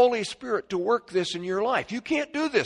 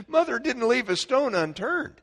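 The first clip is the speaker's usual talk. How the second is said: laughing; 6 semitones higher than usual. Real, not acted. Laughs while recalling mother.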